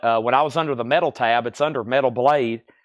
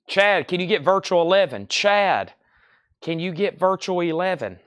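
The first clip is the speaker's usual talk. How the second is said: higher, nagging customer voice, repeating the question; imitating pestering customers; 5 semitones higher than usual. Seller mimics customers begging him for a sold-out record, higher nagging voice. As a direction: mimic fans begging over and over. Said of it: "I'll have people ask me".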